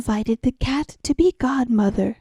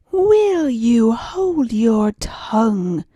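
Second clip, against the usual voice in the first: angry cry; slower than usual. Acted. Cat silences the accusing mouse angrily. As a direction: cut her off with menace. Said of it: "cried the cat".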